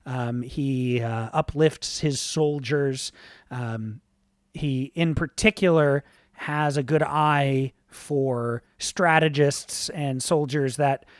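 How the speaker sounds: steady storytelling narration with only a light shift from chat; GM scene setting. A narrator's reading. Game master sets the scene for the players, calm storytelling.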